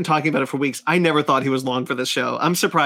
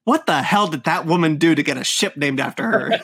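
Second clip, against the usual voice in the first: laughing through the question; half-laughing, baffled rant; laughing disbelief; 3 semitones higher than usual. Real, not acted. Incredulous rant about ship name.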